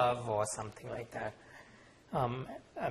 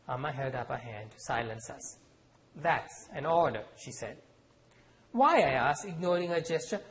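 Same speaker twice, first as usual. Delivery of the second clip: measured author reading with voiced characters; story reading; 2 semitones higher than usual. A narrator's reading. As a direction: read the scene aloud, letting the characters speak. Author reads novel aloud.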